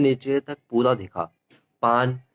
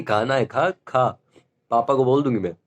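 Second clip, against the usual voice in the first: mom's scolding threat, mildly acted; a hint of a stern mother; imitating mom. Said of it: "कहती है". (माँ की हल्की डांट की नकल)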